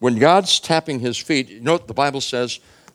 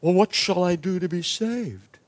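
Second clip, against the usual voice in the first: desperate plea; 7 semitones higher than usual. Acted. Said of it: "the jailer says".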